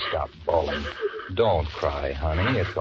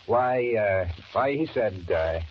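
nervous, higher, stumbling over words; flustered stammer; 4 semitones higher than usual. Acted. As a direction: cover up a scare badly. Flustered lie about brother.

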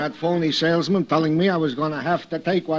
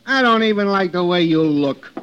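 contemptuous; 5 dB louder than usual. Acted. Clerk insults customer.

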